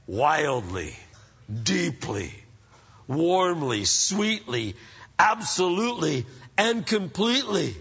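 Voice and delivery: measured, word-by-word love verse; romantic card reading. Acted. Preacher reads a Valentine's card to the congregation, romantic recital. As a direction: linger between each adverb, then drop low.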